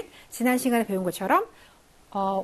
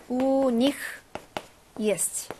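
slow model pronunciation; slower than usual. Shown as a demonstration. Teacher models phrase for learners.

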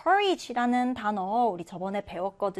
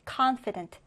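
"confident" with CON hit hardest; stress on first syllable; much slower than usual. Shown as a demonstration. Teacher models the first-syllable stress for students. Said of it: "첫 음절에 강세를 두고".

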